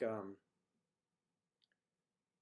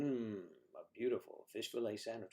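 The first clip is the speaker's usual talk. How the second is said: smooth ad-read voice; commercial voice; 3 dB quieter than usual. Pretend. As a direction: sell it like a TV ad. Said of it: "I should do their commercials for them".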